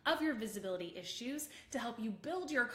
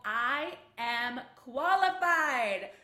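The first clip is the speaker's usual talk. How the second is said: slow, building to a much higher, louder shout; triumphant shout; 6 semitones higher, 11 dB louder, much slower than usual. Shown as a demonstration. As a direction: shout it with your arms up. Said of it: "put your arms up and go".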